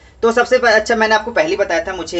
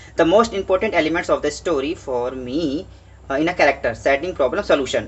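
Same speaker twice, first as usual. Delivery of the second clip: slow worksheet reading; much slower than usual. Acted. Teacher reading the English worksheet to students, slow and deliberate. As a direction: slowly read each prompt word aloud for the class.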